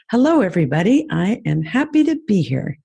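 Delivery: hello lifted with a smile in it; smiling voice. Shown as a demonstration. Speaker greeting the audience, with a smiling voice. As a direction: let them hear you smiling. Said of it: "Which one was a smile? Second one".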